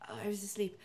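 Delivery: barely awake, whisper it; sleepy whisper. Retold or imitated. Just-woken friend answering the phone, in a whisper.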